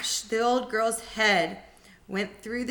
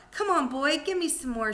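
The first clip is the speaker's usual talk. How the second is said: mild yell; 6 semitones higher than usual. Acted. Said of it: "she yelled".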